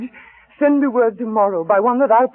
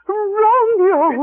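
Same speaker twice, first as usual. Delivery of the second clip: loud, higher call into the night; 9 semitones higher, 6 dB louder than usual. Acted. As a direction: call out to bring him back. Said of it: "for a falconer's voice to lure".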